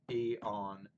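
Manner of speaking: "E on" as a separate foot, weight on "on"; stress on last syllable. Shown as a demonstration. Teacher showing the poem's meter, stress on "on". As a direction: scan "E on" with the beat on "on". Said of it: "stresses on the last syllable".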